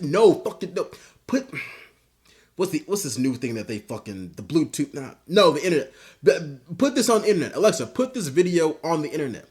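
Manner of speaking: hammed-up frustrated shouting at the device; mock old man yell. Old man yelling at his Alexa, frustrated. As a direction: bark confused orders at the speaker. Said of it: "He's like".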